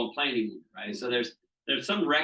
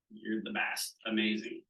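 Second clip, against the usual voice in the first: gentle God; 3 semitones lower, 6 dB quieter than usual. Retold or imitated. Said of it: "God going".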